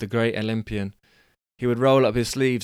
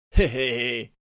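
first try at Billy; 2 semitones higher than usual. Shown as a demonstration. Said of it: "no, he's not from down south".

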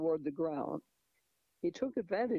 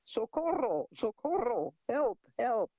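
high, loud cries for help; yelling for help; 6 semitones higher, 4 dB louder than usual. A narrator's reading. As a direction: scream for help in panic. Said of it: "she began to yell".

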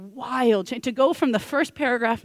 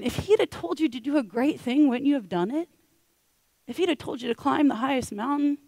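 coaxing plea; 4 semitones higher than usual. Acted. Servants coaxing their angry master.

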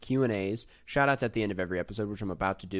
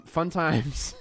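slow, higher attempt at Australian; failed Australian accent; 6 semitones higher than usual. Host reading review sign-off, failed Australian accent. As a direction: draw it out in bad Aussie. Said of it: "I cannot do an Australian accent".

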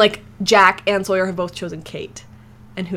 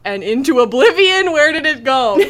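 dramatic narrator voice; 5 semitones higher, 6 dB louder than usual. Retold or imitated. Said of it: "I'd be like".

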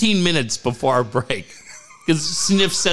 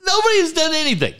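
laughing; faster than usual. Real, not acted. Laughing at himself.

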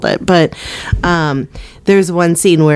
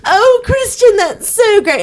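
much higher, hammed-up mid-Atlantic accent; slower than usual. Rich mother greeting her son's new girlfriend, hammed-up mid-Atlantic accent. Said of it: "a mid-Atlantic accent".

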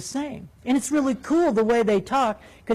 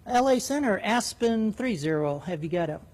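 innocent voice; 4 dB quieter than usual. Retold or imitated. Walter asking Center for speed, mock-innocent soft voice. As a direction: sound completely innocent. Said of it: "In his best innocent voice".

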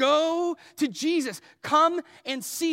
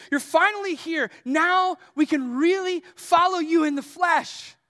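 eager Philip bursting with news; excited. Acted. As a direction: let the long-awaited news spill out. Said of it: "He's so excited".

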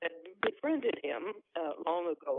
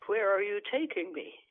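choked out plea; 3 semitones higher, 3 dB louder than usual. Acted. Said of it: "I choked out a few words".

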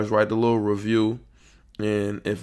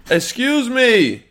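calling out; 10 semitones higher, 4 dB louder, much slower than usual. Real, not acted. Calling to someone at door.

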